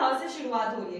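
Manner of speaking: ह breathed clearly, said low; ह pushed out with breath; sound of ह. Shown as a demonstration. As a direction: stress the ह sound. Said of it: "आवाज आ रही है".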